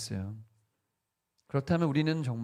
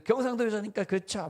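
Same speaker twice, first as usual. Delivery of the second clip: indignant retort; 7 semitones higher than usual. Retold or imitated. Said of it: "막 이렇게 했대요".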